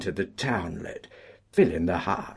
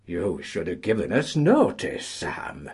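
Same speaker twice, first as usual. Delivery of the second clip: suave. Acted. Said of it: "said the paymaster suavely".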